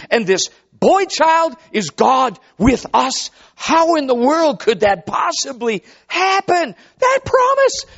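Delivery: slow, emphatic preaching, pitched high; impassioned preaching. Real, not acted. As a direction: preach it in amazement, stretching key words.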